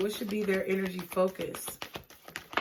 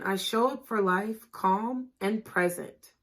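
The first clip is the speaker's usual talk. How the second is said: slower repeat; slower than usual. Shown as a demonstration.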